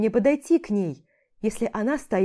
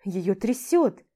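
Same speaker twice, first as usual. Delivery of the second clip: ordinary delivery, nothing marked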